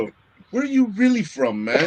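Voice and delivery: mock probing question. Acts out people questioning his origin.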